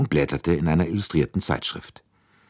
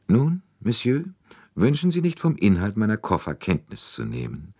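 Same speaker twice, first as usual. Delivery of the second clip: a hint of a haughty old lady, pitched higher; lightly voiced imperious princess; 7 semitones higher than usual. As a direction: challenge him coolly, as a grand old princess. Princess challenges Poirot. (eine hochmütige alte Prinzessin, leicht gespielt, höher)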